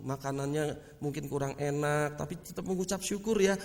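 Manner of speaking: gentle coaxing. Acted. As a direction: coax a crying child softly. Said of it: "Saudara mau deketin, kasih tahu".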